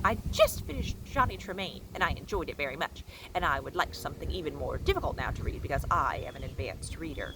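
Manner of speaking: a hint of a prim, boastful schoolgirl; know-it-all girl. Amanda bragging to Miss Franny at her desk, mildly prim voice.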